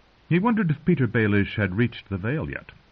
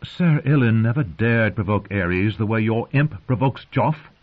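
raised, protesting voice; indignant queen; 3 semitones higher, 4 dB louder than usual. Acted. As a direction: complain sharply in the boy's defence. Queen protests to her father.

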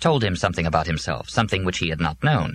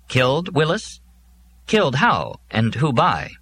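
higher, alarmed questioning; frightened and angry; 7 semitones higher than usual. A narrator's reading. Joe presses Willis about being killed, alarmed and angry. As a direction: demand answers, frightened and cross. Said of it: "He felt frightened and angry".

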